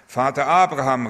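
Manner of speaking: understated narrated shout of a pleading man; calling out. A narrator's reading. Rich man crying to Abraham in the parable, calling out. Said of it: "rief der Reiche laut".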